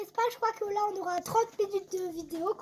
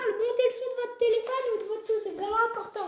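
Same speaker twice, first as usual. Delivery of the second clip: hoarse but insistent; broken voice; 2 semitones higher than usual. Real, not acted. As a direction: push through a worn-out voice. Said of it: "quand j'ai la voix cassée".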